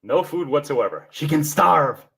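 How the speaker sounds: ogre voice, a touch gruff. Pretend. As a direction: growl it out like an ogre. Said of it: "There's that ogre voice".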